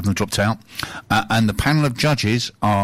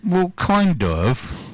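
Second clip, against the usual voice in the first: sheepish lady; 8 semitones higher, much slower than usual. Retold or imitated.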